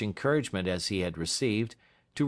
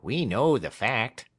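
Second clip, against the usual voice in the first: dry echo, slower, less lifted; the partner parroting his colleague; Craggs echoing; 3 semitones higher, 4 dB louder than usual. Acted. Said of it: "repeated Craggs".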